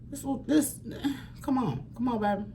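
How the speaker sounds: overcome, half laughing half crying. Real, not acted. Laughing through tears.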